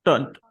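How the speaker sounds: Tunt said with a short uh vowel, not tent; pron demo. Shown as a demonstration. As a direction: end the word as Tunt, with the vowel of but. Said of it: "because it's not tent".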